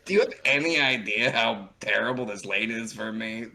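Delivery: a put-on whiny complaining voice, lightly done; imitating whiny Tavros. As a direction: whine it like the stuck friend, half-joking. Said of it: "That's what he sounded like in the lane".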